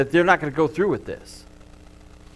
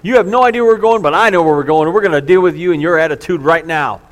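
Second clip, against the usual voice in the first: stern parent scolding; 5 dB louder than usual. Acted. Stern parent ordering child out.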